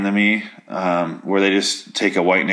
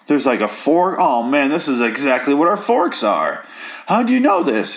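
mock marveling Sam; 4 semitones higher than usual. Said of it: "he's just like".

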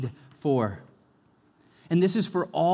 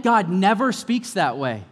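full-force preaching; 4 semitones higher, 6 dB louder than usual. Acted.

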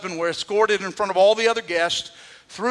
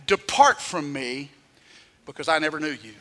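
stern judgment; 5 semitones lower, 3 dB quieter than usual. Retold or imitated. Jesus answers the boasters.

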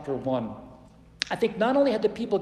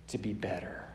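lowered whisper; 9 semitones lower, 10 dB quieter than usual. Real, not acted. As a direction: drop to a whisper for emphasis. Whispered ending.

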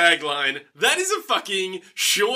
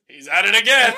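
louder shout from the back of a crowd; mock heckle; 3 semitones higher, 6 dB louder than usual. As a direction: imitate an onlooker calling out, amused. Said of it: "someone else says".

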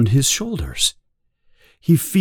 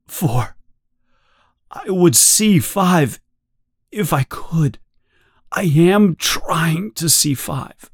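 strained pleading Winston; 6 semitones higher than usual. Acted.

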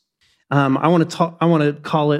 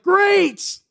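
mock cheerful. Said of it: "And I was like".

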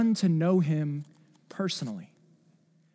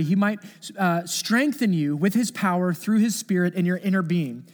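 intense prayer; 3 semitones higher than usual. Retold or imitated. Preacher reading Paul's bold prayer with fervor. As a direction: read it like a desperate plea. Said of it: "it's like an intense prayer".

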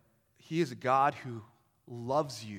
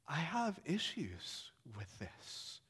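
retold crying; 10 dB quieter, slower than usual. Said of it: "that's where he started crying".

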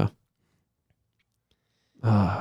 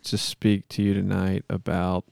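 measured, solemn monotone plea; earnest-sounding improvised prayer; mock prayer; 2 semitones lower, slower than usual. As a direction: pray aloud with halting mock sincerity.

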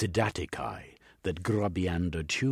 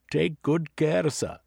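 louder, higher proper butler; 10 semitones higher, 6 dB louder than usual. Acted. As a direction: play the dutiful butler. Butler signing off.

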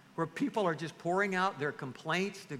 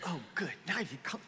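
mock scared; 4 semitones higher, faster than usual. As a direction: pretend panic at being called up. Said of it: "you'd be scared to death".

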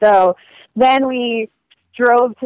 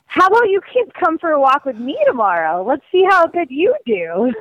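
teasing challenge; 5 semitones higher than usual. Retold or imitated. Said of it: "I was like".

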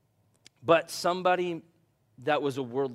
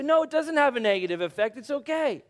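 mock dismissive; 8 semitones higher, 4 dB louder, faster than usual. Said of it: "We say".

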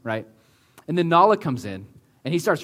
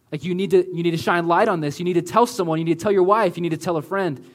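louder pressing voice of conscience; urgent insistent urging; 3 semitones higher, 5 dB louder, faster than usual. Retold or imitated. The Spirit urging the man to confess, louder and pressing. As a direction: push every "you need to" harder.

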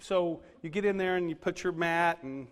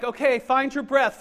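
yoga instructor; 5 semitones higher, 7 dB louder than usual. Retold or imitated. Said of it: "she's like".

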